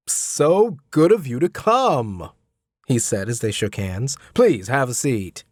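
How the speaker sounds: slow, lightly voiced gracious host; a hint of a welcoming father, unhurried; lightly voiced host greeting the tutor; Mr Hubbard.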